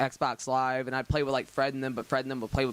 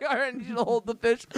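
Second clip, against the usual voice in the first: higher voice imitating his girlfriend; 9 semitones higher than usual. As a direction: lightly voice her, pitched up. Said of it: "She's like".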